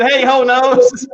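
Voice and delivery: slow drawn-out read with a chuckle; chat quote, slow through a laugh. Retold or imitated. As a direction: stretch each word out, half laughing. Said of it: "he said".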